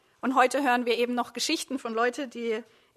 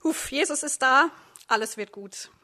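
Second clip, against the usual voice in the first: relieved; 3 dB louder than usual. Acted. Disciples in the boat recognise Jesus, mildly acted relief. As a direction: breathe out and let the worry drop. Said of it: "Ihr seid erleichtert".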